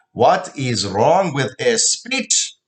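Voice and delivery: slow, sneering repeat of her question; mocking echo. Father mockingly repeating mother's question. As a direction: throw her words back at her, slowly.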